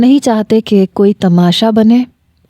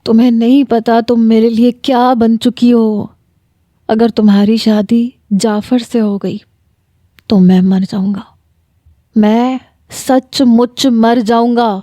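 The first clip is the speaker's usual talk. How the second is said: tearful despair; 2 semitones higher than usual. Acted. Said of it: "پھوٹ پھوٹ کے رونے لگا".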